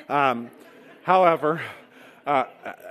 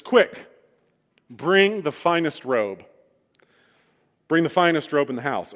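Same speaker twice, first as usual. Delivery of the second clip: father yells; 5 dB louder than usual. Acted. Father calling a servant for the robe, loud urgent yell. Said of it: "the father yells to a nearby servant".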